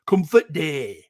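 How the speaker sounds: lightly put-on West Yorkshire accent; a touch of broad West Yorkshire. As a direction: imitate West Yorkshire day-trippers. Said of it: "people from West Yorkshire".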